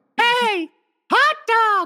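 very high-pitched cartoon mouse voice. Retrying a cartoon voice after a first attempt missed, in a Mickey Mouse voice. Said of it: "I knew it was in there".

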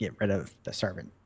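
very low, hushed, secretive whisper. A player's character, after shutting the door, speaks to Rourke, whispering. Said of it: "I kind of whisper to Rourke".

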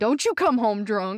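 mock, pretend yelling. Joking about yelling at a husband after a tear about a singer: pretend yelling at husband. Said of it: "yelling at my husband".

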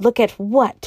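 savage, fierce, harsh tone. A secretary, suddenly told to look over there, asks back, savage demand. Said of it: "asked the secretary savagely".

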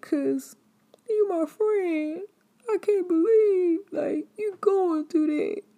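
very high, loud, fake-teary wail. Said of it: "That's why I'm over here crying".

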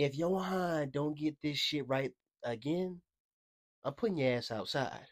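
menacing, scary, stern tone. Retelling mom's threat over homework: imitating mom's scary threat. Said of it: "I was so scared".

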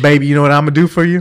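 very country put-on woman's voice. Retelling a country lady's offer to a serviceman, in a very country lady voice. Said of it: "I get this very country lady".

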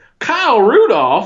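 put-on Southern accent, very high and loud. On a podcast, saying a tight end's name in a put-on southern accent. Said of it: "say it in a Southern accent".

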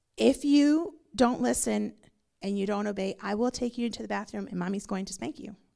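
ordinary talk

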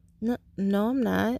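halting, stumbling, puzzled stammer. The narrator answers him after being asked if they are stupid: stammered. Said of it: "I stammered".

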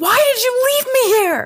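shrill, piercing, high-pitched, loud accusing yell. Narrating a scene, voicing a woman the group left behind, yelling. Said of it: "She yells".

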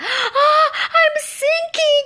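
loud, shrill, very high little squeak. The narrator realizes they are sinking into a stinky swamp, squeaking. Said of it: "I squeaked".

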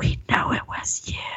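whispered voice. Retelling people whispering through the window at night: imitating a whisper. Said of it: "They were whispering in my window".

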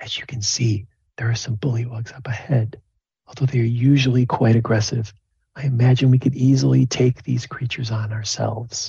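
hushed stage whisper. A game master voices a doctor who blocks the party and speaks, quiet half-whisper. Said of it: "she begins to whisper to you, like really quietly".

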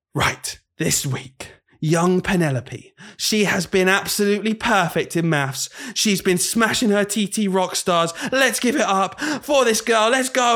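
hype announcer voice. Retelling how a guy talked while handing out class certificates at assembly: imitating over-the-top hype voice. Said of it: "he'd be talking like this".

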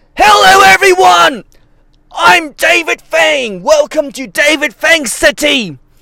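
very high-pitched, loud shouting. Opening the show, the host greets everyone while shouting. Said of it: "the reason I'm shouting today".

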